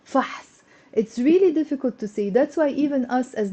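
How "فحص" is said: فحص as a tight fahs, consonants together; one syllable. Shown as a demonstration. Teacher showing a word that's difficult to say, in one syllable. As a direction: say فحص without a helping vowel. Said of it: "whenever we have one syllable words".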